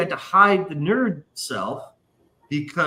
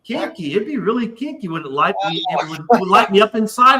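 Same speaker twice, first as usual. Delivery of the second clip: imitating the girl; 5 semitones higher than usual. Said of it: "She's like".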